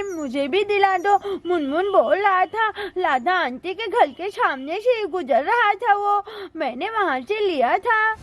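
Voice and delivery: put-on childish lisping nagging; pleading little child. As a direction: pester mother for a treat like a small child.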